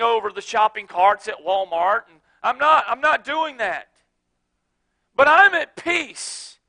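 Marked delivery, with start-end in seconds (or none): 5.2-6.6 calm and at peace. Real, not acted. Pastor answering his critics again, slow and calm. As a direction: say it settled. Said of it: "repeated slow".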